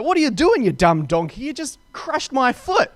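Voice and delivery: high, loud mock outburst at the donkey; furious retold rebuke. Rider yelling at his donkey for crushing his foot, mock furious. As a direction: snap at the dumb donkey, hammed up. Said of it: "he's furious at that".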